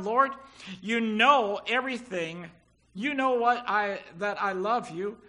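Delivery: hurt, pleading answer. Acted. Peter answers a third time, hurt.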